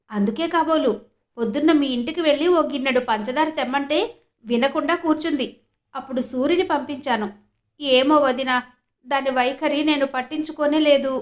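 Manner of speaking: lightly voiced mother. Savitri voiced in story.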